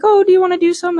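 high, airy imitation of a friend offering drugs; mock party friend. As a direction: toss off the offer in a lilting mock voice. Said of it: "they're like".

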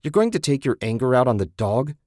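furious. Acted. Susan furious at Ted.

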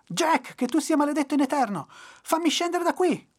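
high, loud furious yelling; raging shout. A narrator's reading. Trapped devil cursing Jack from the tree, raging shout. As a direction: curse him at the top of your voice. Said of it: "urlava il diavolo".

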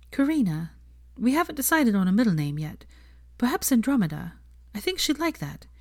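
a hint of a young woman's voice; Hermione voice.

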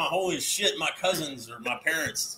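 low, slow mock Alabama drawl; Alabama accent. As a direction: lightly put on an Alabama accent. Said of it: "I got that Alabama ... accent".

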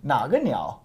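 "Naga" dipping and rising as a question. Shown as a demonstration. Teacher checks student hears the question, questioning "Naga niao". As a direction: ask it, lifting "Naga". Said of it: "can you hear it's a question?".

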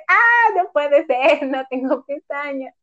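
slow mock despair over lost lashes; dismayed whine. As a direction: moan it slowly like a small tragedy. Dismay at cut eyelashes.

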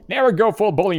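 hammed-up shout. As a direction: belt it out jokingly. Joking catchphrase, loud high.

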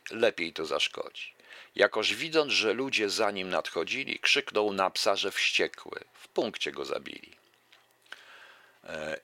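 lively recital of a verse fable; fable reading. Acted. Lecturer reciting a fable to the audience, lively recital. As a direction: read the fable out to the audience with relish.

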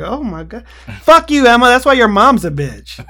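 high, loud catty yell; mock-furious girl fight; white girl arguing. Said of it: "two white girls argue".

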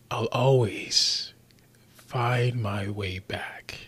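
slow menacing whisper. Acted. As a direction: breathe it out like a threat. Dramatic villain line whispered.

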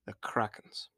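hushed whisper, as if the monster could hear; quiet whisper. Acted. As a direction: breathe the name in fear. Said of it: "Suffolk said quietly".

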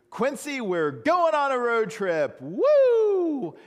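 high, loud, squealing excitement; giddy high-pitched cheer to the dog; excited dog owner. Retold or imitated. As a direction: shriek it like a thrilled dog owner. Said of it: "And he goes".

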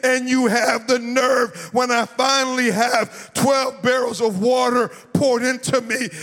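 rising, sung preacher cadence; full-force preaching. Acted. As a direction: preach it, let the words ring out. Preacher builds to climax.

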